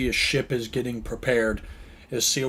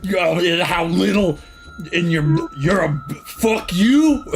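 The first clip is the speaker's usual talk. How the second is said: laughing; 6 semitones higher, 5 dB louder than usual. Retold or imitated. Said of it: "It wasn't even a sentence".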